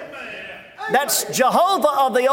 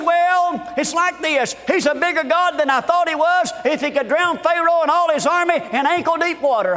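lightly voiced redneck, a little raised; excited redneck; 5 semitones higher than usual. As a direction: imitate a redneck making his gleeful point. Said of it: "He said".

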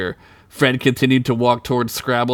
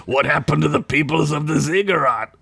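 put-on childlike wonder; 3 semitones higher than usual. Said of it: "like a child listening".

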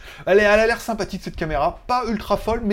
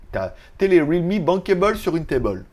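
French words in a put-on American accent. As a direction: play a joking American tourist. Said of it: "avec l'accent américain".

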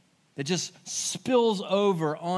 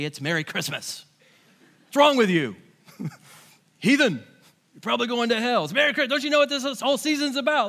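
mock snarl; 4 semitones higher, 4 dB louder, faster than usual. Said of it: "we don't snarl back at them and say".

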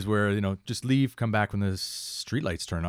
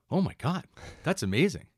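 amazed onlookers; 8 semitones higher than usual. Retold or imitated.

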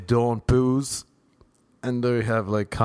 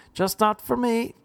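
high, drawn-out dismissive voice; mock begrudger, pitched way up; stubborn begrudger; 11 semitones higher than usual. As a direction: wave it away in a high voice. Begrudger answering his questioner.

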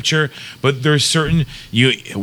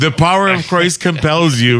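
imitating the Exorcist priest; 4 semitones higher, 4 dB louder than usual. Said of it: "the priest was like".

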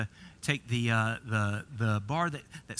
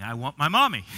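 put-on louder, half-hearted kid's cry for mom; mock child's yell; 5 dB louder than usual. Imitating a fallen child calling for mom, mock yell. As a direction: yell it lightly like a hurt kid. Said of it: "you start yelling".

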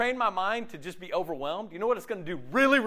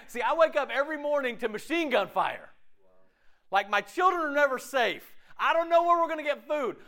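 higher-pitched imagined survivor explaining the hardship; war-zone survivor; 6 semitones higher than usual. Acted. Preacher voicing someone living amid war, imagined survivor's plea. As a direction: plead the case as someone in real danger.

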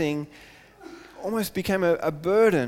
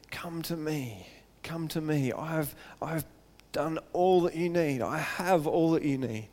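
much softer, enticing murmur; luring call; 6 dB quieter than usual. Retold or imitated. Other lovers softly luring the unfaithful bride. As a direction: lure her in quietly.

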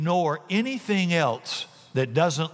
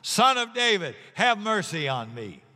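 louder plea; 6 semitones higher than usual. Acted. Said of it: "He only shouted louder".

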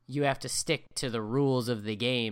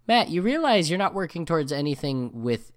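exasperated rant; 3 semitones higher, 7 dB louder than usual. Retold or imitated. Arguing with friend Matt about games.

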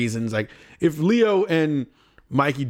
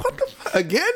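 retold disbelief; 13 semitones higher than usual. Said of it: "I was like".

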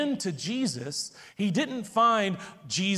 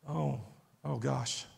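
dismayed hush; 7 semitones lower, 8 dB quieter, slower than usual. Acted. Peter's dread seeing Jesus.

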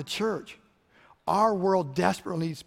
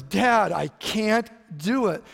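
put-on drawn out, slower and higher, a little boy close to tears; mock near tears; 4 semitones higher, much slower than usual. Boy tells his dad he can't move the log, close to tears. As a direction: stretch it out like a kid about to cry. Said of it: "He almost starts crying".

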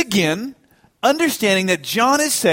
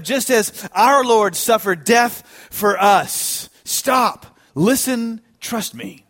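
slow, imploring call after someone fleeing; retold plea, drawn out and raised a little; crying out; 4 semitones higher, slower than usual. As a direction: plead slowly, easing down at the end. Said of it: "crying out".

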